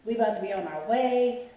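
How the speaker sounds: hurried mother ready to go; mom's urgent reply. Retold or imitated. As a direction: voice mom rushing to leave. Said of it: "my mom was like".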